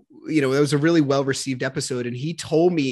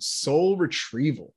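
savoring the phrase; slower than usual. Shown as a demonstration. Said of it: "Oh, I like that word".

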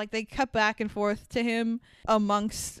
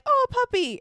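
much higher, delighted mock coo; cooing at a puppy; 14 semitones higher, 3 dB louder than usual. Seeing the dog in the film, cooing high with delight. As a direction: squeal over the cute puppy. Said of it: "I'm like".

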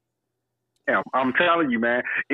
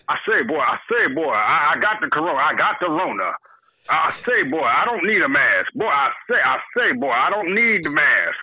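Foghorn Leghorn. Retold or imitated. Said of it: "sound like Foghorn Leghorn".

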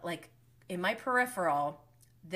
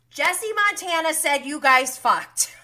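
high, loud imitated accusation; acted accusation; 7 semitones higher, 9 dB louder than usual. Imitating Kristen at the reunion, loud accusation. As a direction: blurt it high, loud and drawn out.

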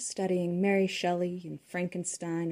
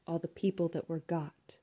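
whisper; 2 semitones lower, 7 dB quieter than usual. Acted. Hushed line inside poem.

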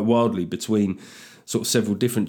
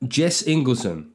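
slow name announcement; announcing a patron's name; hype call; slower than usual. Acted. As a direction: draw the name out. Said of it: "do a very quick hype here".

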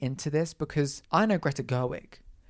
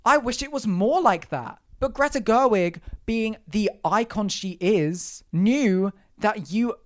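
sarcastic drawl; 5 semitones higher, 4 dB louder, slower than usual. Real, not acted. Mocking male critics.

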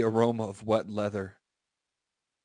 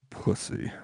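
whispered word; 4 dB quieter than usual. Real, not acted. Reader drops to voiceless word.

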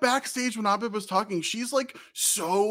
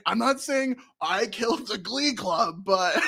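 quoting Mister Rad. Retold or imitated. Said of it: "we would just be quoting".

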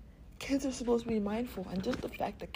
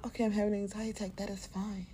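calm self-talk; faster than usual. Retold or imitated. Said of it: "But instead of doing that".

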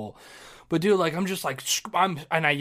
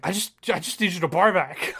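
flustered; 4 semitones higher than usual. Retold or imitated. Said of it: "I was so flustered".

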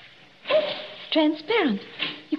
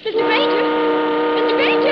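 loud hail across the water; shouting up to the ship's deck; calling out; 3 semitones higher, 7 dB louder than usual. Acted. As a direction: call out to the ship, louder the second time. Calling out to ship from boat.

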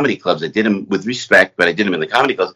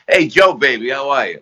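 put-on a light North Jersey crooner accent, a bit higher; lightly voiced Hoboken crooner greeting, casual and friendly; 6 semitones higher than usual. A famous singer greeting a nervous young comic in a mild Hoboken accent. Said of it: "that Sinatra, North Jersey, Hoboken accent".

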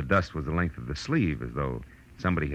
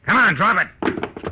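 slow command; 14 semitones higher, 5 dB louder, much slower than usual. Acted. Ordering killer to drop gun.

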